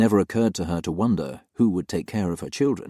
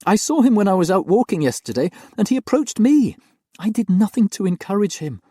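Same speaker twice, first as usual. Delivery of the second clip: put-on high, loud, pleading young woman's voice; tearful young nanny; 12 semitones higher, 6 dB louder than usual. Nanny pleads her innocence to her employers, high and loud with tears. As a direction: protest your innocence with a hint of tears. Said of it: "as tears rolled down her cheeks".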